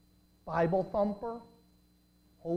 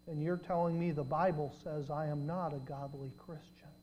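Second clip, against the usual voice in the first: lowered voice; 2 semitones lower, 6 dB quieter than usual. Retold or imitated. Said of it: "he lowered his voice".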